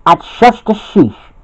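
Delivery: high-pitched snappish retort; cross yell. A narrator's reading. Bobby yells back at Chuck, cross yell. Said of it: "yelled Bobby".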